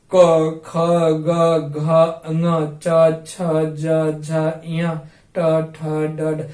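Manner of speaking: क ख ग each said clipped with no आ; bare consonants recited. Shown as a demonstration. Teacher reciting consonants for students to copy. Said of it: "ऐसे उच्चारण करेंगे कि उसमें आ का बोध ना हो".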